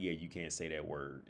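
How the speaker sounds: low, quiet imitation of a grave warning; dead serious. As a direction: mimic someone gravely telling a guy no, softly. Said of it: "they were dead serious".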